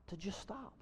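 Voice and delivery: very soft, low, with long pauses; hushed, still. Real, not acted. Preacher urging congregation to be still before God, hushed delivery. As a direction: settle the room into silence. Models being still and silent.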